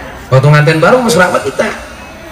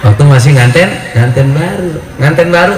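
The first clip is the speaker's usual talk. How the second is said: ordinary delivery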